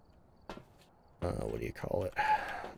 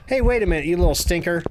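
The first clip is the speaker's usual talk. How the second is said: indignant realization; 4 semitones higher, 4 dB louder, faster than usual. Real, not acted. Catches the ghost's trick.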